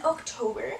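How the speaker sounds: accidental odd accent on October; October with an unintended accent; slip into an accent. Real, not acted. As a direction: let October slip out in a put-on-sounding accent. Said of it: "say that in an accent".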